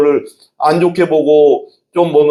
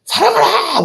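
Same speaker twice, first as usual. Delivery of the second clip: much higher, soaring mock exhortation; Billy Graham exhorting; slower than usual. Pastor mimicking an evangelist calling the crowd to love, high soaring cry. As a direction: fling the command up high like a crusade preacher. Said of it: "막 그러면서".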